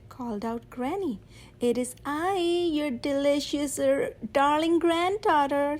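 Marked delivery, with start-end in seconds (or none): 1.6-5.8 wolf lightly faking a sweet granddaughter voice; a hint of a put-on little girl; sly wolf barely disguising himself as the girl; wolf in a high voice. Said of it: "said the wolf in a high voice".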